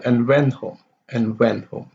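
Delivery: "went" carries it, "home" falls away; HOME unstressed. Shown as a demonstration. Teacher demonstrating went home, HOME unstressed. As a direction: leave "home" without stress after "went". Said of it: "home is not in stress".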